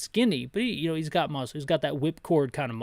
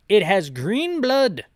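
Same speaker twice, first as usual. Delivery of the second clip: slow, louder British officer line; 4 semitones higher, 5 dB louder, slower than usual. Acted. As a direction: state the clue in a British officer voice. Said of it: "Gotta get my British voice back up".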